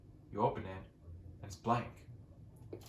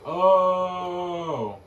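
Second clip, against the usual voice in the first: startled shout; 8 semitones higher, 14 dB louder than usual. Real, not acted. Startled by a mob in base.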